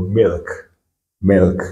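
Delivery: "milk" with a single i vowel; French-like i sound. Shown as a demonstration. Teacher models the first sound for learners, "milk" with French-like i. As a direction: say "milk" as a model word, i without a glide. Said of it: "comme si on avait un mot en français".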